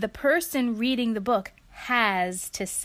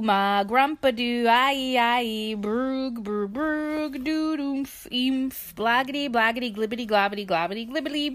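silly gibberish sounds. Acted. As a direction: babble the nonsense with gusto. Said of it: "And makes silly sounds".

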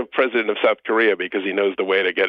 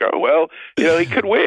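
mock casual shrug; 8 semitones higher than usual. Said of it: "everyone's just like".

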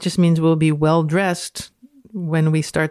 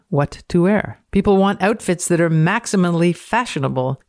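dramatic reading. Acted.

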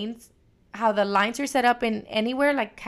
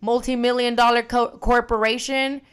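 heated rant; 3 semitones higher, 5 dB louder than usual. Pretend. Ranting at imagined customer.

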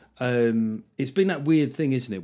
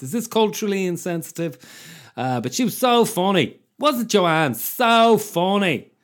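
put-on higher Dublin Irish accent, slowed at the end; 7 semitones higher, 6 dB louder than usual. Host imitates guest Joanne, Dublin accent. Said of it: "I will try and do the, the Dublin accent now".

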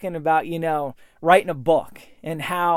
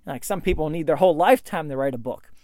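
doubtful inner voice; 6 semitones lower, 4 dB quieter than usual. Retold or imitated. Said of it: "I'm going".

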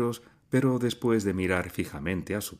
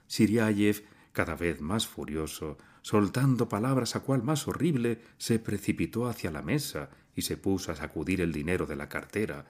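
ordinary delivery

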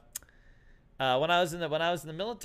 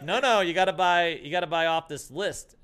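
louder, laughing mock insistence; retold insistence; 3 semitones higher, 7 dB louder than usual. Bouncer telling him to buy off the list, mock insistent.

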